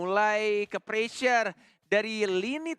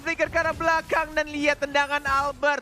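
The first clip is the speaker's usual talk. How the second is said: fighting game announcer; 9 semitones higher, 5 dB louder than usual. Acted.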